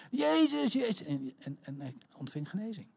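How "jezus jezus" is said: high mock cry, tailing off; calling out. Blind man kept calling to Jesus, high half-voiced cry. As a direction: call the name high without full force. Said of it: "hij bleef roepen".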